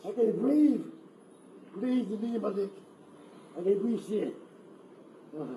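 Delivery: loud, strained pleas; desperate shouting. Real, not acted. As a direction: shout through real pain. Man pleading loudly while restrained.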